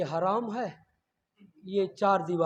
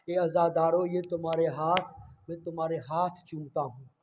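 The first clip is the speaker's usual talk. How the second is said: tender quoted words; 3 semitones lower than usual. Acted. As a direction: say it gently, with reverence. Quote read softly.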